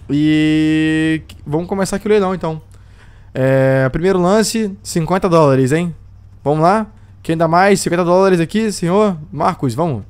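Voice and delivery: lively auction caller voice; auctioneer. Acted. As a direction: call out bids like an auctioneer. Runs a mock slave auction.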